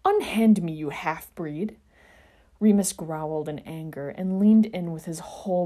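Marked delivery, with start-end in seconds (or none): 0.0-1.8 loud, snapping demand, slowing at the end; indignant demand. Acted. Sirius demanding release from Remus, indignant. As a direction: spit out the insult.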